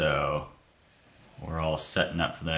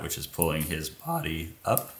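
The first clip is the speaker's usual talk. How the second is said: voice crack; 7 dB quieter than usual. Real, not acted. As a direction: voice cracks on body up. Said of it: "it's a nice voice crack".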